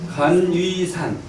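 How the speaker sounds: measured drill recitation; syllable by syllable. Shown as a demonstration. Teacher drilling the hexagram names, syllable by syllable. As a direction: set each syllable apart. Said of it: "이렇게 있는 거예요".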